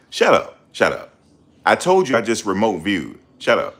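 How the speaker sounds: loud dismissive shout at the chat; shouting them down. Real, not acted. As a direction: cut them off hard. Shouting down doubters.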